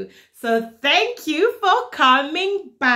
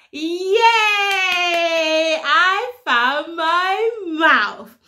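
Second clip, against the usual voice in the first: excited yay; slower than usual. Acted. Found it, celebrating.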